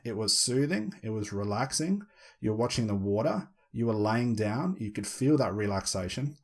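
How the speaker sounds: low, soothing hypnotist tone; hypnotic voice. Shown as a demonstration. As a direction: lull them gently into trance. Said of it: "I've put my hypnotic voice into it".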